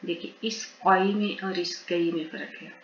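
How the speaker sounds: steady, measured spelling drill; syllable drill. Shown as a demonstration. Teacher drilling learners on Quranic syllables, measured chant. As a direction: chant each syllable clearly for pupils to repeat.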